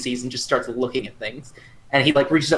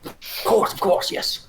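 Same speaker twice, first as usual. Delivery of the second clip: whispering; slower than usual. Acted. Unvoiced high reply.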